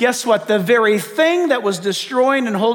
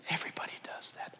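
quick sly whisper, voicing Satan; tempter's whisper; 22 dB quieter, faster than usual. Preacher voicing Satan tempting the listener, quick whisper. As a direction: hiss it fast like a tempter in the ear.

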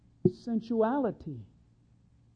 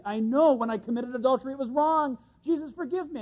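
mild plea; 4 semitones higher than usual. Acted. Voicing a repentant sinner's plea.

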